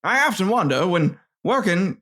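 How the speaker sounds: a hint of old-fashioned reading; lightly voiced old-timer; old-timey voice. Shown as a demonstration. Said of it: "more of an old-timey voice".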